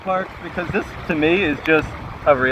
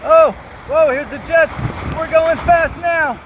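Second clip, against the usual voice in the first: water slide ride; 9 semitones higher, 6 dB louder than usual. Real, not acted. Riding slide toward the end.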